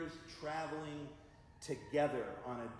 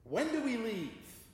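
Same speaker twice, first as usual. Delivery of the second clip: wise wife asks; 9 semitones higher, 5 dB louder than usual. Retold or imitated. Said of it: "the wise wife said".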